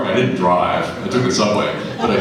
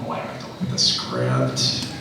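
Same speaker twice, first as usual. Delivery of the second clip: low, weary thoughts; lazy, low self-talk; tired inner voice; 4 semitones lower than usual. Retold or imitated. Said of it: "and I thought".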